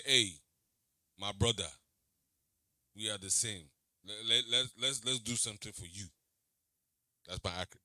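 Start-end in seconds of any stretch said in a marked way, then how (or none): 0.0-6.1 a casual imitation of an African accent, hailing a brother. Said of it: "that's my African accent".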